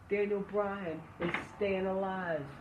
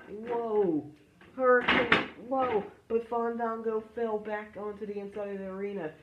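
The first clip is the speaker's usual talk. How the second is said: wrestling commentator. Acted. Live wrestling play-by-play.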